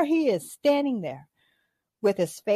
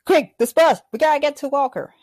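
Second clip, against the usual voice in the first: urgent call; 4 semitones higher, 4 dB louder, faster than usual. Retold or imitated.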